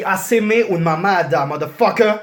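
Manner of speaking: put-on Spanish accent; hammed-up Spanish accent; Spanish version. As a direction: say it in rough Spanish, with a swear to finish. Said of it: "je le dis en espagnol aussi".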